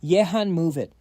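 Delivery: panicked yell at his partner, kept half-hearted; inner scream. A narrator's reading. Disguised friend silently screaming for help: mild mock yell. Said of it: "inside he is screaming".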